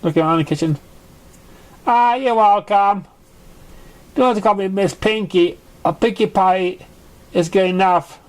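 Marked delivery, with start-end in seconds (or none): 1.9-8.2 high, friendly pony voice; cheery Pinkie Pie. Acted. Pinkie tells the young pony to drop the Miss, high and cheery. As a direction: brush off the formality with a bright lilt. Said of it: "she replied".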